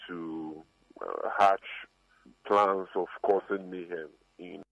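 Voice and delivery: distorted phone line audio; crackly, distorted recording; fuzz distortion. Real, not acted. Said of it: "Apologies for the distortion in Sami Jemfi's boi-, voice".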